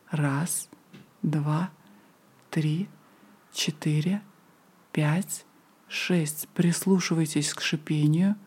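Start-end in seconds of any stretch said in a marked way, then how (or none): 0.1-6.5 slow breath counting. Shown as a demonstration. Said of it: "Затем медленно выдохните".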